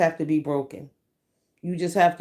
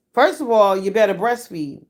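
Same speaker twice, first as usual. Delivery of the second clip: 1 loud; 3 semitones higher, 6 dB louder than usual. Real, not acted.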